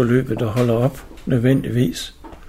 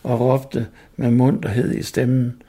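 story reading; 3 semitones higher, slower than usual. Acted. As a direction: read it like a tale to listeners. Reads story over music. (oplæsning af fortælling)

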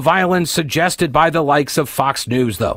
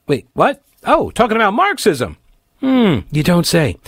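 sarcastic surprise; 5 semitones higher than usual. Pretend.

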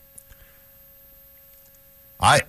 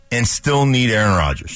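exasperated shout; 4 semitones higher than usual. Real, not acted. Exasperated outburst.

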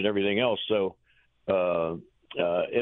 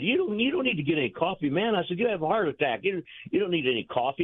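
higher-pitched imitation of arguing back; retold protest; 6 semitones higher than usual. Coach warns manager off coffee, retold high-pitched protest. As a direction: retell it as animated pleading.

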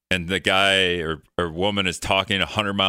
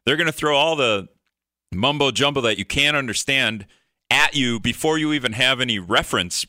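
higher, hammed-up double take; mock indignant surprise; 5 semitones higher than usual. Viewer caught off guard by an ad, mock indignant and higher. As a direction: act like an ad just ambushed you. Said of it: "And I'm like".

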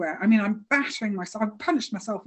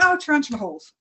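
casual; 4 semitones higher than usual. Retold or imitated. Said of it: "you know, really casually".

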